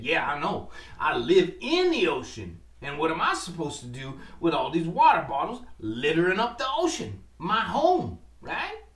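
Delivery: hint of an indignant octopus. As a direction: plead about her home. Octopus replies to fisherman.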